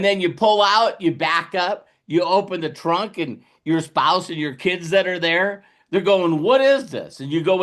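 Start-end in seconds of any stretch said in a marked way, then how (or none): 6.4-7.2 higher puzzled question; surprised family. Pretend. Spouse and kids seeing the trunk, surprised question. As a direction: sound startled by the trunk. Family asking about gold.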